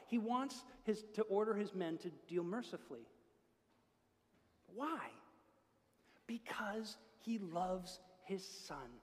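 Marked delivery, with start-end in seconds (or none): 4.7-8.9 whisper. Real, not acted. Tender point in sermon.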